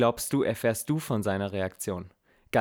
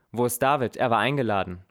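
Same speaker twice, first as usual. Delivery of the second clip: reproachful; 5 dB louder than usual. Acted. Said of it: "fragt er vorwurfsvoll".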